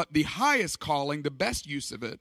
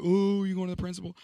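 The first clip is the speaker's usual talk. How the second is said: teasing classmates; faster than usual. Retold or imitated. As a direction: imitate kids ribbing a classmate. Classmates teasing him, acted out.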